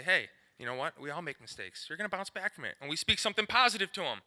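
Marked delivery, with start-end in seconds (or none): 0.0-2.8 put-on softer, gentle encouragement to a kid; reassuring coach. Shown as a demonstration. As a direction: comfort him after his mistake, quietly. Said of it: "look him in the eye and say".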